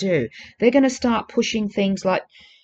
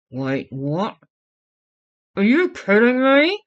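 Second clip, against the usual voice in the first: disbelieving outburst; 3 semitones higher, slower than usual. Pretend. Imagined viewer discovering the truth.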